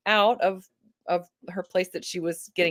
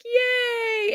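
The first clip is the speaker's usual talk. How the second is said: mock cheer. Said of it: "we were like".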